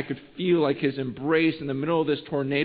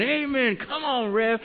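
Sandy; 9 semitones higher, slower than usual. Retold or imitated. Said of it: "it was always Sandy".

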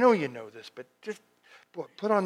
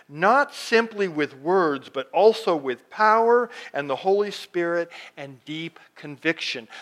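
slow, deliberate Bible reading; measured pulpit reading; scripture reading. Acted. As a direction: read the verse out slowly, weighing each phrase. Reads scripture aloud.

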